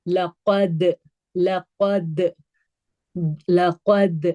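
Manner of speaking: bouncing final D in لقد; لقد recited with a released, bouncing D; qalqala. Shown as a demonstration. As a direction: echo the D at the end of لقد. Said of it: "دال کہاں لگ رہا ہے".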